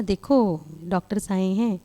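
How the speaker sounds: a mild, kind request, no pressure; lovingly. Retold or imitated. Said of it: "मैं प्यार से बोलकर चली गई". (प्यार से, हल्के स्वर में)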